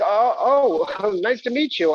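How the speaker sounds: flustered chuckle meeting a stranger; awkward laugh. Retold or imitated. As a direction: force a polite laugh while greeting. Awkward greeting of a cast friend.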